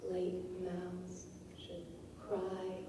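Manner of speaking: late mouths should cry, each word slow and weighted; slow stressed reading. Shown as a demonstration. Teacher reading a poem line to show its stresses, slow and weighted. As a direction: lean hard on late and should. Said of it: "then the emphasis comes".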